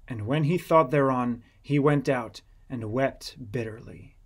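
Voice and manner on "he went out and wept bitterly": usual speaking voice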